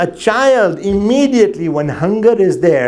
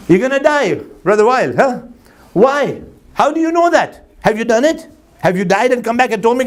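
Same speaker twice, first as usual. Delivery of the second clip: laughing retort; 5 semitones higher than usual. Retold or imitated.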